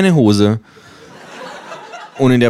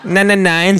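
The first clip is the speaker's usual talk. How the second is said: Känguru; 12 semitones higher than usual. Acted. Känguru widerspricht hoch.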